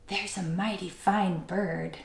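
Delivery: hushed, slow and admiring; tender near-whisper. A narrator's reading. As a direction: murmur it softly and slowly to yourself. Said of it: "he whispered and sighed a tender sigh".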